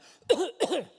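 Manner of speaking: big, sudden double cough; loud demonstrated cough. Shown as a demonstration. Breaking the silence in Walmart with a loud cough. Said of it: "and I went".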